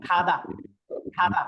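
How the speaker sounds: খাদা said with a sound midway between g and kh. Shown as a demonstration. Teacher models the in-between খাদা. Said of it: "এরকম।".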